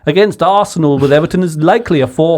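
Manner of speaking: a hint of posh English, fast; posh English accent. Friends egging him into his posh English voice. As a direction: clip it like a posh pundit. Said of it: "Do your posh English one".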